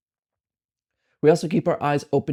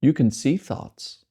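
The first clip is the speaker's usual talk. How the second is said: unhurried meditation guidance with long silences between phrases; measured, spacious delivery, letting each phrase settle; guided meditation. Acted. Meditation guide helping listeners accept the mind as it is, unhurried guidance.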